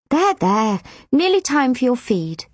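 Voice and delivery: put-on brisk there-there to a baby; pat-pat comfort, a little loud and businesslike; soothing nurse. Nurse patting the crying baby, brisk soothing.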